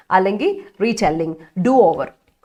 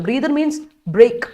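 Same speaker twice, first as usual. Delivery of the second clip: dictation pace; 2 semitones higher, much slower than usual. Shown as a demonstration. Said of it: "teacher dictating slowly".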